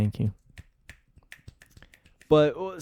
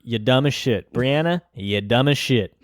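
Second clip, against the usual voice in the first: mock scolding; 2 semitones higher, 7 dB louder than usual.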